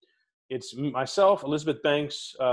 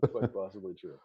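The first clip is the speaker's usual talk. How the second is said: laughing; 7 semitones lower, 7 dB quieter than usual. Real, not acted. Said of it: "That could be your epitaph".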